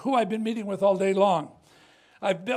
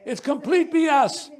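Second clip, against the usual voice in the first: louder, higher "B S" with a laugh; laughing dismissal; 5 semitones higher, 7 dB louder than usual. Real, not acted. Telling the journalist again: a louder "B S" with a laugh. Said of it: "restated louder with a laugh".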